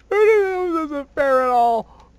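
slow fake-sobbing whine; mock crying. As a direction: pretend to cry over the lost army. Whining the plan failed.

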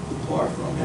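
a whispered depart from me; hushed judgment. Retold or imitated. Pastor voicing God's verdict, whispered. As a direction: breathe it out like a final verdict.

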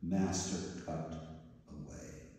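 soft, fading to a voiceless whisper; whispering low. Acted. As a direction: breathe the surrender out. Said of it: "whispering low".

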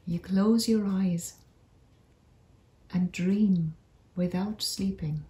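unhurried meditation voice with long pauses; guided meditation. Acted. Narrator leads listeners on a magical forest walk, guided meditation. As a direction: guide listeners gently through an imagined journey, leaving space between phrases.

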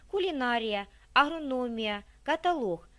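кулінарія, агрономія, каталог read as a stress test; stress quiz words. Shown as a demonstration. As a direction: lay out кулінарія, агрономія, каталог each with clear word stress. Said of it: "А де ви ставите наголос у цих словах?".

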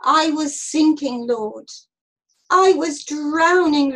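loud, drawn-out calling to God; prayer. A narrator's reading. Jonah praying inside the fish, calling out. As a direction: cry out slowly to the Lord. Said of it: "and prayed a prayer".

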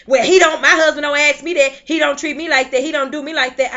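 mock the wife who grumbles; imitating a complaining wife. Preacher mimicking a wife complaining about her husband, mock whine.

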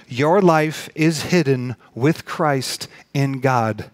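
slow, weighty, phrase by phrase; measured preacher's emphasis, very drawn out. Real, not acted. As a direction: spell out the promise with deliberate pauses. Preacher repeats verse for emphasis.

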